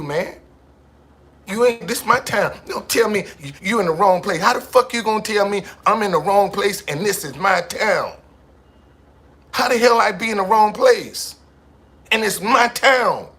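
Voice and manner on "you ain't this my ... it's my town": louder and higher, daring the crowd; defiant this-is-my-town shout. Retold or imitated. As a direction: yell it like you own the street. Acting out defiant street confrontation.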